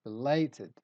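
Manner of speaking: "belated" with the middle syllable "la" stressed; stress on LAY. Shown as a demonstration. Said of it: "We stress lay".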